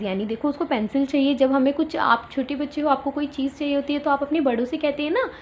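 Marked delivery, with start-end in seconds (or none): none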